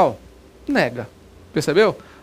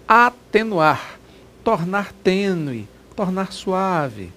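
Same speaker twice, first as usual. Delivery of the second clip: slow definition; much slower than usual. Shown as a demonstration. Teacher dwelling on definitions.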